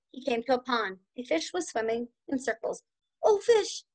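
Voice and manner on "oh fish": mild cry. Acted. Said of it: "the turkey cried".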